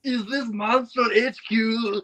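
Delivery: high, slow put-on voice; funny character voice. Arriving character asking for headquarters, high slow funny voice. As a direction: ask it high and drawn out.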